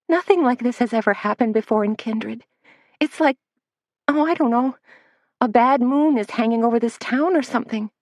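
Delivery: put-on a rattled young assistant correcting herself; flustered young Missy.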